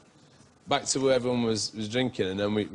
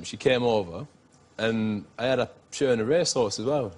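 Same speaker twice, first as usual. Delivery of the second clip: ordinary talk, nothing marked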